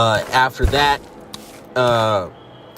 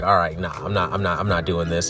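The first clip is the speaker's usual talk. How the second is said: Sami Zayn fed up; 5 semitones lower than usual. Retold or imitated. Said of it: "he's like".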